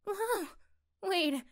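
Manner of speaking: high, startled exclamation; surprised whoa. Acted. Girlfriend seeing her mom's apron appear, startled high whoa. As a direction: react as if it just popped into view. Partner reappears holding apron.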